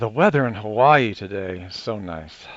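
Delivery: sounding relieved. Speaker tries a different test sentence on the voice system, relieved tone. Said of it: "I was going for relief".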